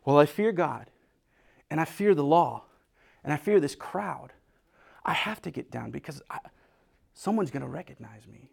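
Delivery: a touch of fear, fading to a whisper; lightly voiced frightened woman shrinking down; fearful woman.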